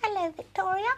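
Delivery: high, small pretend doll; silly doll voice. Pretending to be the dolly replying, silly high voice. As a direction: answer in a silly high-pitched voice. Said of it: "that was me being silly".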